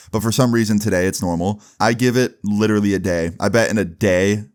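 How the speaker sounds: just-woke-up morning voice; groggy morning voice; sleepy husky good morning. Real, not acted. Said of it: "if I sound like I just woke up".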